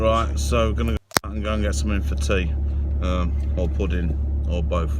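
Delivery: speaking over car park noise. Real, not acted.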